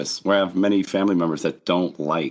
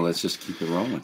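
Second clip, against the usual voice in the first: hoarse, croaky voice; rough throat, croak through it; frog voice; 6 dB quieter, faster than usual. Real, not acted. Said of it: "you're unbearable with the frog voice".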